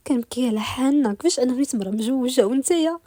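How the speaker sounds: lightly acted crying voice; tearful. A woman weeping over their situation to her beloved, tearful. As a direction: lament with a touch of tears. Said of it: "علاش كتبكي؟".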